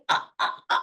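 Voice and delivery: imitated wordless gasps, cut short; struggling to get a shout out; speechless stammer. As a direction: act out stuttering gasps of surprise. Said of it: "trying to, like, shout out".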